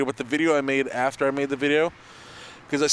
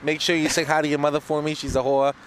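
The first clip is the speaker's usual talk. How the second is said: mock podcast outro in a Boston accent. Thanking the listeners in a put-on Boston accent. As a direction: play up the Boston vowels. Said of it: "Boston Nick".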